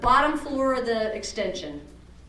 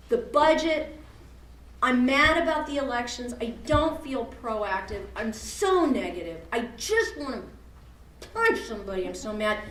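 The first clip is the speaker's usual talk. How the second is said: mock angry rant. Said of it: "I know some of you wanna say to me".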